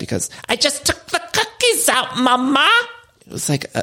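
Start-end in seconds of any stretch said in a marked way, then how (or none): 0.5-2.7 put-on very high, aggressive, heavy English accent. On a podcast, the speaker quotes Sutton in her very aggressive English accent. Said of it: "very aggressive accent work".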